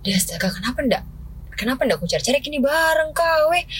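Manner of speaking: high, exasperated astonished cry; surprised exclamation. Retold or imitated. Exclaiming to herself at the forgotten item, astonished and high. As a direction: suddenly realize what you forgot to buy.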